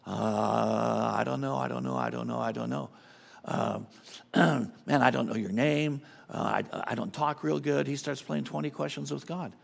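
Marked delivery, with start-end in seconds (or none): 0.1-7.9 mock flustered stammer, lightly voiced; a hint of a tongue-tied Moses. Moses stalling before God, mock stammering. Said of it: "And what does he do?".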